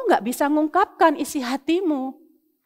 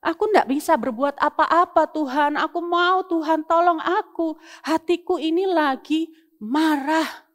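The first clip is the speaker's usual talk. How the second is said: put-on child's angry prayer; 3 semitones higher than usual. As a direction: pour out anger to God like a child. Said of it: "katakan sama Tuhan". (doa anak yang sedang marah, lebih tinggi dan keras)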